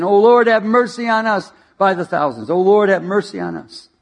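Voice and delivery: loud, high pleading cry to the Lord. Retold or imitated. Christians on their faces crying out for mercy, loud and high. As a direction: wail it like a crowd begging for mercy. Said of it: "in unison".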